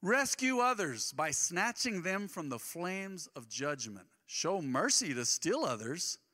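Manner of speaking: slow, weighty scripture read. Acted. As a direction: read each phrase slowly, letting it land. Reads scripture slowly.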